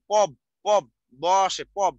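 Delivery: "পব" sounded out as its own syllable, ending on a clear b; emphatic, separated "পব" to bring out the ব; syllable demonstration. Shown as a demonstration. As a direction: repeat "পব" firmly for learners, stressing the b sound. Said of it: "ব উচ্চারণে আসে কিন্তু".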